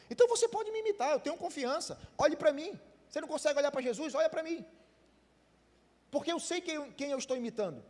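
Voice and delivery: loud and high, pleading with the congregation; impassioned preaching. Real, not acted. Preacher urging the church to look at his life, loud and fervent. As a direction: throw it out to them with full conviction. Preacher's climax, louder and higher.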